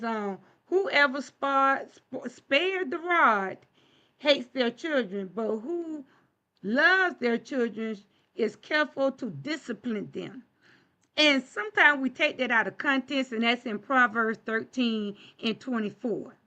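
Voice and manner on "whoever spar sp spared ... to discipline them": slow scripture reading. Shown as a demonstration. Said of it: "So it says".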